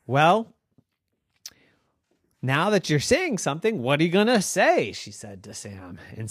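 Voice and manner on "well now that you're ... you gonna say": put-on high, quick, excited little girl voice; girl Noah. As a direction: squeak it out like an eager young girl. Noah questions the fish.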